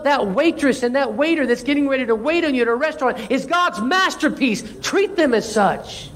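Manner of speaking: high-pitched, urgent exhortation; impassioned preaching. Real, not acted. Preacher urging church to treat restaurant staff well, impassioned.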